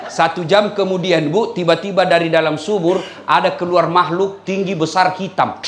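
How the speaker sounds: ordinary talk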